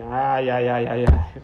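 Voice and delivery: amused ai ai dissolving into a laugh; laughing sigh. Retold or imitated. Rebbe laughing at the boys who spied on him, amused ai ai. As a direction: chuckle it out, knowingly amused.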